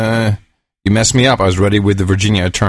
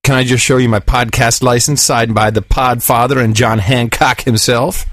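put-on drunk talking to a cop.

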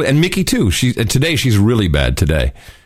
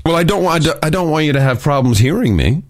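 talking through a throat full of liquid; while gargling. Real, not acted. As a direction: speak as if still gargling. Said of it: "it sounds like you still are".

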